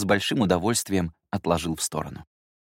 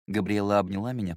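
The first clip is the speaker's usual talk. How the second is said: usual speaking voice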